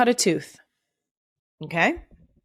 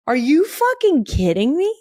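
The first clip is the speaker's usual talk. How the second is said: higher exasperated cry; outraged disbelief; 8 semitones higher than usual. Real, not acted. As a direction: react like it's absurd. Outraged at headline.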